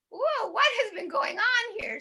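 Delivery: high, surprised playful whoa; polite host. Pretend. Polite luau host finding food and cats everywhere. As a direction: act like a host who finds a mess. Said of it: "they're like".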